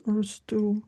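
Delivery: ordinary talk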